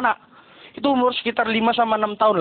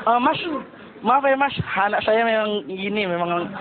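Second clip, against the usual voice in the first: apologetic mother; 4 semitones lower, 3 dB quieter than usual. Retold or imitated. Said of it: "mama yang ngomong".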